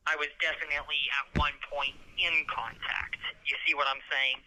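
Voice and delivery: muffled jail phone line; on a prison phone. Real, not acted. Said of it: "legal advice over the phone".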